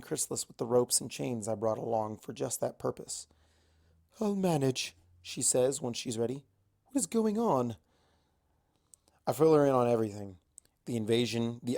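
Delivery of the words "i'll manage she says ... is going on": a hint of a shaken but steady Celestia; a light touch of a regal voice; recovering Celestia. Celestia recovering after the fight.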